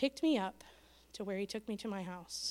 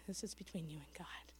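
soft, breathy, almost voiceless close; hushed whisper; 3 semitones lower, 9 dB quieter than usual. Retold or imitated. Preacher whispering his words to the taxi driver, hushed whisper. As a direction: whisper it low, like a secret between him and God.

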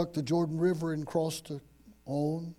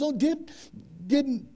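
higher-pitched acted heartbroken plea; hurt, mildly angry; 5 semitones higher than usual. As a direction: voice a wounded mother's reproach. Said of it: "a little bit of anger and hurt in her voice".

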